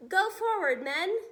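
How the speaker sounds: rally the men forward; commanding shout. Acted. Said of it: "the head of the army said".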